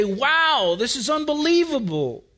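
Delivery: awestruck wonder, pitch lifting on the first words; mildly hammed-up amazement; amazed awe. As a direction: marvel aloud as an astonished psalmist. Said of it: "makes David almost say".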